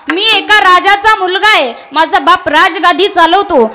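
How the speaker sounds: mildly hammed-up princely appeal; acted protest.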